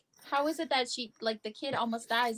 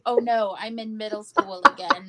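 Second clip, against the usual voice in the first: loud, laughing "oh no"; cringing through a laugh; laughing groan; 6 dB louder than usual. Retold or imitated. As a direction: laugh it off in mock despair. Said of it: "And I was like".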